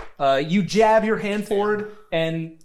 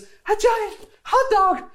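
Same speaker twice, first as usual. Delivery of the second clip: very high, squeaky panicked character voice; hammed-up panic. Game master plays Dee Dee fleeing upstairs, squealing in panic. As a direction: squeal it in mock alarm, stumbling over words.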